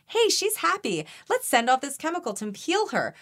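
body's inner voice. Pretend. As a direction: chirp it like your own body cheering you on. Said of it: "it sends a signal to my body".

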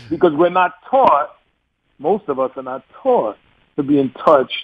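taught with a broad New York aw; New York accent. Shown as a demonstration. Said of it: "That was my New York accent".

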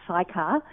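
Sychar said as SY-kar, first syllable like "sigh"; chosen pronunciation. Shown as a demonstration. Author showing her chosen way to say the village, Sychar as SIGH-kar. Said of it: "so I've decided it's pronounced".

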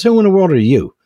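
high, loud burglar's challenge; acted incredulous demand. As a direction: demand it in mock disbelief. Burglar challenges parrot in joke.

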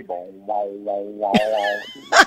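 low wah wah like a bouncing spring; bouncing spring noise. Shown as a demonstration. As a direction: bounce the wahs up and down. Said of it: "do it a third time just for a laugh".

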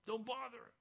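a hint of people hushing a beggar; crowd hushing him. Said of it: "They're saying".

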